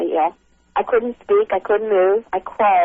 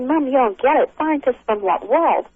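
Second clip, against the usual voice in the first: higher-pitched incredulous pleading with mom; retold exasperated protest; 5 semitones higher than usual. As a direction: reenact arguing with a mother who won't get it. Retold protest to disbelieving mother.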